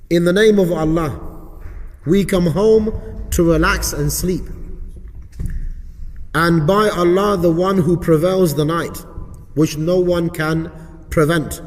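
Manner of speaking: measured, emphatic prayer reading with short pauses; recited supplication. Shown as a demonstration. Teacher reciting the supplication for students, measured recitation. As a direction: recite it firmly, phrase by phrase. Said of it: "I know it's a little bit quick".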